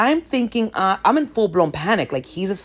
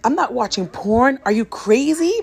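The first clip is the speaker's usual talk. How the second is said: mock yelled denial; 5 semitones higher than usual. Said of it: "of course I yell".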